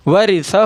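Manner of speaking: "ورثہ" recited with its last "hu" held long; drawn-out ending. Shown as a demonstration. Teacher showing how it is read, "ورثہ" with a long final vowel. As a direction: stretch the closing "hu" of "ورثہ". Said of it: "ہا کو تو کھینچ کر پڑھیں گے".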